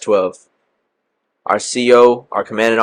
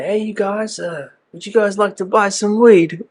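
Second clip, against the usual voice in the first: put-on London accent; 10 semitones higher than usual. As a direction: imitate a London street hustler's accent, pitched way up. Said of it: "You gotta hit him with the accent".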